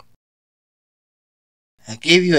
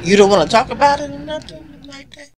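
higher, laughing nervous plea; 11 semitones higher than usual. Acted.

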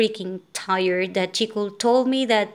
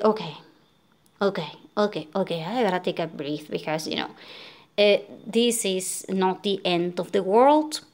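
tearful self-calming; 2 semitones lower, 3 dB quieter than usual. Retold or imitated. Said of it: "I started crying".

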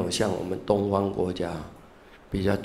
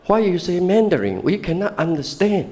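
high, puzzled English complaint from the teacher; baffled professor; 9 semitones higher than usual. Retold or imitated. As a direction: act the confused American professor. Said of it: "你在讲什么". (模仿困惑的美国教授)

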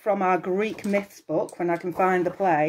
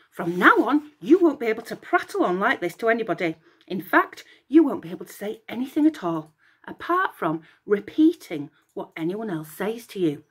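stern curse; 2 semitones higher than usual. Acted. Hera curses Echo.

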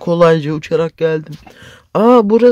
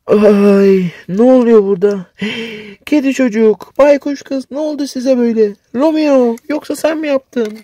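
put-on much higher, louder, alarmed girl's voice; a heroine finding her friends transformed, gasping; shocked girl hero; 5 semitones higher, 6 dB louder than usual. (yüksek sesli, şaşkın ve telaşlı kahraman kız)

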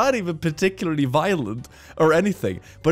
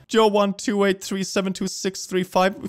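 higher, disbelieving reread; incredulous; 7 semitones higher than usual. Acted. Rereading the troll's username, incredulous. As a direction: savour the absurd number.

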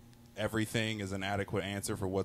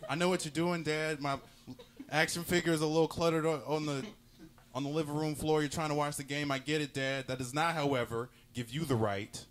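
lightly voiced indignant kid, pitched up; a hint of a child lecturing his father; five-year-old self; 4 semitones higher than usual. Kid accusing dad of mispronouncing names on purpose, lightly voiced and higher. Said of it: "and five years old".

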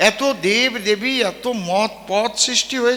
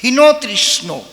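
the name হীনতৃষ্ণ spat out in a changed voice, louder; scornful name; 2 semitones higher, 4 dB louder, slower than usual. Acted. Preacher to the congregation, spitting out a rival's name হীনতৃষ্ণ with scorn. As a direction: sneer the name হীনতৃষ্ণ in disgust. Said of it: "ওর নাম আমি কবই না".

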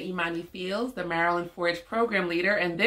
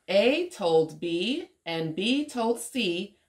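put-on lilting, measured story reading for a child; picture-book read-aloud; slower than usual. A narrator's reading. Woman reading an alphabet story to young Omari, lilting read-aloud. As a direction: read it out rhythmically with playful swoops.

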